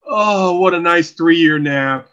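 lightly voiced snail, slow and drawn out; waking snail. Co-host voicing a snail after its long nap, lightly voiced waking snail. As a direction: stretch it out like a contented sleeper. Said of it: "that snail's like".

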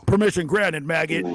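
high-pitched drill sergeant parody; mock drill sergeant. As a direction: bark back at a recruit in jest.

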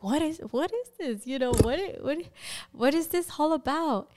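incredulous, halting questions; retold bewildered demand. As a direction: retell confronting someone in disbelief, voice lifted. Retold confrontation over found papers.

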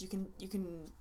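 tripping over repeated words; stuttering. Real, not acted. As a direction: stumble and repeat. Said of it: "I'm stuttering so hard".

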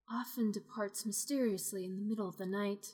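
measured storytelling read; story narration. A narrator's reading. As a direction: narrate the scene evenly. Game master reading scene.

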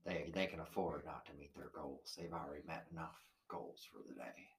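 mock country accent. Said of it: "what kind of an accent was that?".

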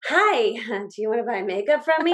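awkward pitch with a nervous laugh; creepy pitch. Shown as a demonstration. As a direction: do the weird, creepy stranger pitch. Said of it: "if you say it like that's creepy and weird".

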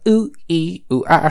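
high, squeaky chipmunk chant; chipmunk witch doctor voice. Retold or imitated. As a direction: chirp it like a sped-up chipmunk. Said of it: "the witch doctor voice sounded like a chipmunk".

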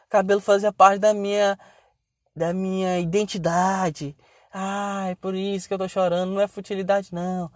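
soft, lightly mocked weepy excuse; retold tearful. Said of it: "quando ela tava chorando". (imitação leve de voz chorosa)

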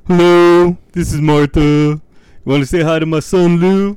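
high, loud mom impression; hammed-up high-pitched mother voice; Martha. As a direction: play a mom leaving a voicemail. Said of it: "That's our Martha and Lou impression".

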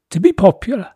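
booming royal decree; pompous king voice. Acted. Boris again.

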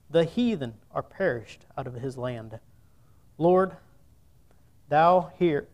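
measured, solemn reading of the psalm; a preacher reading scripture to the congregation. Acted. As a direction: read the verses out with weight. Reads Psalm aloud to congregation.

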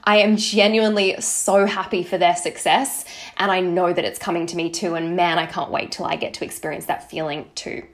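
mean every word of "I am genuinely so happy"; genuine joy. Shown as a demonstration. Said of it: "it has to be".

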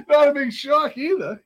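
high, loud, drawn-out retort; amused excuse. Retold or imitated. Man shrugging off the news to counselor, loud amused excuse.

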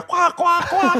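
high-pitched mimicked quack; mock squawking. Host mocking a petty quarrel, high squawking imitation. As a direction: squawk it like bickering ducks.

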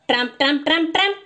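rhythmic marching sound; tramping shoes. A narrator's reading. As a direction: beat it out like footsteps. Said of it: "go their shoes".

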